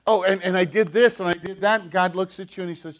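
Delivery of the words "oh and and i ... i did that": put-on little child boasting. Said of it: "like a little child".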